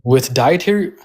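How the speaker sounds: phone call cutting out; patchy phone audio; over the phone. Real, not acted. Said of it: "I'm on my phone, so it's gonna, like, cut out a lot".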